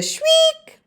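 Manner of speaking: storyteller mimicking a shriek; shrieked word. A narrator's reading. Narrator imitates beast's shriek.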